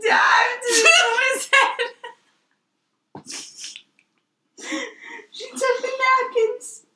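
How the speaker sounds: high-pitched laughing delivery. Real, not acted. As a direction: squeal it through laughter. Laughing while retelling the mishap.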